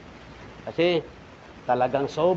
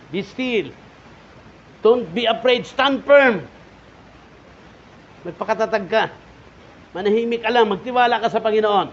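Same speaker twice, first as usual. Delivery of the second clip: high, loud cry of God's command; rally them to stand firm; impassioned preaching; 7 semitones higher, 8 dB louder than usual. Acted. (malakas na utos ng Panginoon)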